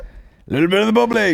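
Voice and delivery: mocking high voice. Mocking the wedding phrase.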